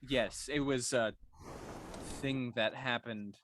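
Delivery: deadpan, halting understatement; dry delivery. Acted. Druid explaining his metal arm to a sailor, dry delivery. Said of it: "His delivery is so dry".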